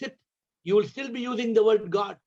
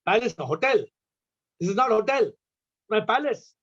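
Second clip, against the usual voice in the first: mildly indignant retold king; upset king. King rebuking the Zen master, mildly indignant. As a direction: play a king taking mild offence. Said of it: "The king got upset".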